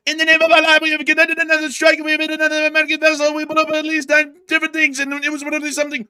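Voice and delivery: high shouted fast statement; shouting spokesman. Retold or imitated. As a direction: yell it like a fiery spokesman. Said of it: "He'd be like".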